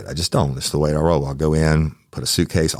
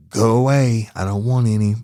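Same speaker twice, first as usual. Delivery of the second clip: annoyed call through door; 5 semitones higher than usual. Retold or imitated. Yelling at door knocker.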